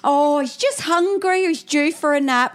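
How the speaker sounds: smooth it over sweetly for onlookers; apologetic sing-song excuse. Retold or imitated. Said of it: "I'll go".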